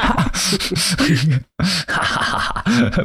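sinister little laugh; villain laugh in the background; evil chuckle. Pretend. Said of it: "Böses Lachen im Hintergrund".

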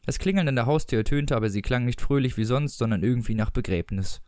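measured audiobook narrator; story narration. A narrator's reading. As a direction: read it out as literary narration. Reads a story aloud. (Erzählstimme einer Lesung)

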